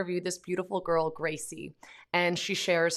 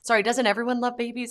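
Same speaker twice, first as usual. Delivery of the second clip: put-on higher, louder kid voice, baffled; puzzled little boy; 6 semitones higher, 5 dB louder than usual. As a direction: ask it like a confused toddler. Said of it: "He's like".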